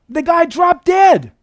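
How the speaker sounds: sudden preacher cry; preacher's shout. Real, not acted. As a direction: belt it out in shock. Dramatic punchline in sermon.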